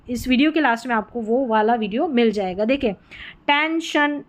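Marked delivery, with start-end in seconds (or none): 3.5-4.2 टेंशन with sh in the last syllable; SION as shun. Shown as a demonstration. Teacher showing SION readings, sh demonstration. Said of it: "टेंशन में शन पढ़ रहे हैं".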